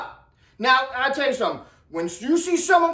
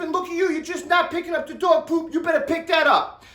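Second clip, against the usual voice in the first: mock scolding; 4 semitones higher than usual. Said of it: "he's like".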